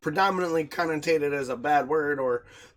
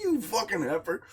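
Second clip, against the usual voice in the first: mock confrontation; 4 semitones higher, 4 dB louder than usual. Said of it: "be like".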